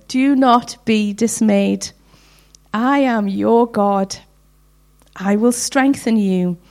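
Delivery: moved to near tears by the verse; moved scripture reading. Real, not acted. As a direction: read each promise slowly through real emotion. Trying not to cry.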